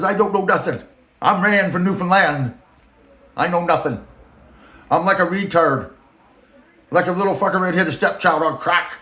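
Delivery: mock the boss playing dumb; Rand's voice. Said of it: "I'm just filling in voice".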